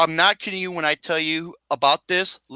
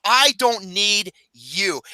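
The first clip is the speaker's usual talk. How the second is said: quoting CM Punk; slower than usual. Retold or imitated. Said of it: "he said it best".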